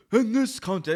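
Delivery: big booming announcer call; ring announcer imitation. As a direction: boom it like an old ring announcer. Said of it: "strong delivery that was".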